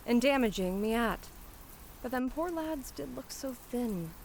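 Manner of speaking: lightly voiced flower girl musing to herself; a hint of Cockney self-reproach softening into fondness; Cockney flower seller, touched. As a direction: chide yourself, then admit you were moved.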